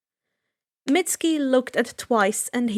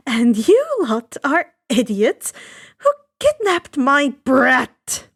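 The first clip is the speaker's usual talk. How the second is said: angry mother; 5 dB louder, slower than usual. Acted. Mother confronts villains over kidnapped son.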